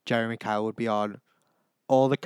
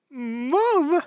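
high, loud call for mum; 14 semitones higher, 7 dB louder than usual. Pretend. High call to mum after the insult at the door. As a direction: call out for mum like a scared kid.

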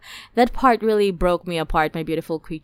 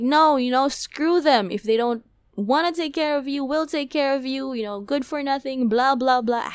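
retold angry rant; 5 semitones higher than usual. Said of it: "I was so mad".

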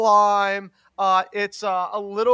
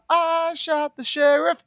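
hype man; 7 semitones higher, slower than usual. Pretend. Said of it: "I'd be like".

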